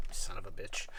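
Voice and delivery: annoyed curse. Real, not acted. Webcam pops up unexpectedly.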